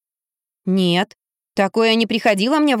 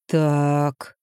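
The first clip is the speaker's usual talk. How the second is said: drawn-out so; 6 semitones lower than usual. A narrator's reading. Мужик тянет слово, садясь за стол, низко и медленно. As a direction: stretch it out, low and wary. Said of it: "протянул мужчина".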